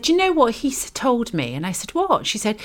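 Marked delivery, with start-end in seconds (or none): 0.0-1.5 excited. Retold or imitated. Friend's quote, retold with excitement. 1.9-2.3 surprised. Retold or imitated. Her own retold surprised reply.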